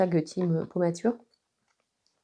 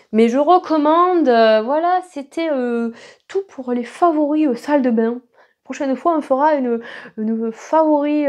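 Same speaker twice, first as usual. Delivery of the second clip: put-on southwest French accent; 5 semitones higher than usual. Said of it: "pourquoi est-ce que je prends cet accent du sud-ouest".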